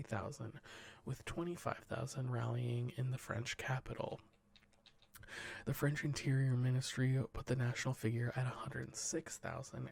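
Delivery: steady newsreader delivery; news read. Acted. Podcast host reading the headlines to cohosts, newsreader style. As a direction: read the wire report to the cohosts, measured news voice. Reads news stories aloud.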